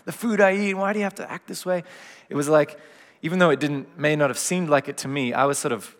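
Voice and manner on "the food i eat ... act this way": higher-voiced exasperated outburst, retold; mock the son's frustrated protest; imitating upset son. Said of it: "lost it at me".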